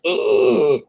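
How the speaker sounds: drawn-out soft creak; low, quiet vocal squeak; slow door squeak. Retold or imitated. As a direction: imitate a door slowly creaking open. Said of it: "It's a slow squeak".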